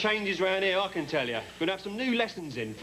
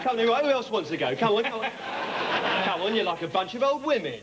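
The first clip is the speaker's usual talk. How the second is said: boxing challenge; 4 semitones higher than usual. Acted. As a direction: taunt them to step up and fight. Caretaker challenges staff to box.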